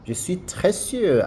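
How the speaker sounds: "je suis très sûr" in French, sûr rounded like sue. Shown as a demonstration. Teacher modelling French for students. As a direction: model the full French phrase. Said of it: "be careful when you're writing the sieu".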